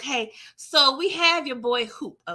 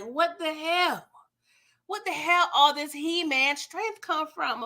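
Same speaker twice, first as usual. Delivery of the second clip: astonished question; 4 semitones higher than usual. Retold or imitated. Watching Lamar tackle the man, astonished. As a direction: marvel at his sudden strength.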